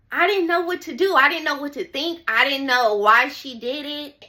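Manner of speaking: fast, high and rattled; panicked. Retold or imitated. Retelling her panic in the police car, fast and high. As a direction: blurt it out in rising panic.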